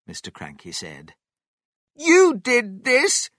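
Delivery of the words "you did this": high, loud, drawn-out shout; furious-wife shout. A narrator's reading. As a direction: shout it shrilly at your husband. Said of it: "Missus Cranky shouted at her husband".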